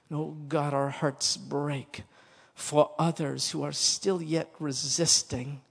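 slow, subdued pastoral prayer; solemn closing prayer with measured pauses; earnest prayer. Real, not acted. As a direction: pray it reverently, phrase by phrase. Preacher prays aloud.

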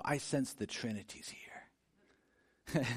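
slow, hushed, sarcastic awe; mock reverent. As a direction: fake a pious sigh of wonder. Mocking the church's self-image.

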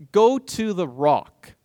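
slow, deliberate divine instruction; slow command. Acted. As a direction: stretch each word of the order. Voicing God's command to Moses.

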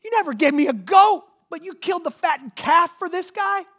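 imitating the jealous older brother; mock outrage. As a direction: whine it like a jealous kid. Preacher mimics brother's outrage.

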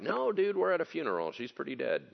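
imitating scoffers, starting high then dropping; mock disbelief, falling away at the end. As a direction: poke fun in an incredulous dude voice. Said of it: "they're making fun of him".

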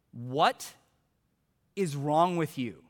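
measured, with a long pause after the first word; grave retold reproach; imitated stern rebuke. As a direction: let each piece hang, lightly acted disapproval.

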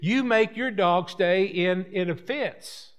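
hammed-up indignant defense of his dog; country dog owner protesting. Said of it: "And the country people says".

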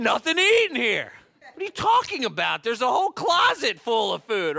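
put-on complaining kid and parent. Kids complain, parent retorts.

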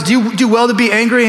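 God asking gently. Acted. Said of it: "and God goes".

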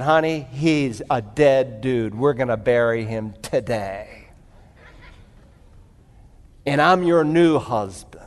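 low, soft, slowed murmur sinking to a whisper; hushed tender aside. Retold or imitated. New husband soothing his startled bride, soft and hushed. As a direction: lean in and hush it like a secret to his bride.

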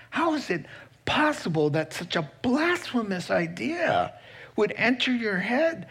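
God voiced as astonished and affronted; indignant God. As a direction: rise up in disbelief at the very idea. Voicing God's indignant rebuke.

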